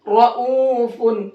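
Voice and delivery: slow "रऊफुन", long "oo"; heavy Ra. Shown as a demonstration. Teacher showing students how to read, heavy Ra. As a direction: thicken the R and stretch "रऊफुन". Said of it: "ऐसे पढ़ेंगे".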